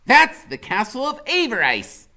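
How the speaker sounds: high, loud, proclaiming; a boy knight naming enemy lands; Freak's grand voice. A narrator's reading. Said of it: "Freak keeps saying stuff like".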